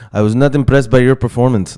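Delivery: a clumsy mock French Canadian accent; terrible GSP accent. Fight vlogger mocks GSP in bad French Canadian accent. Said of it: "That was a terrible accent".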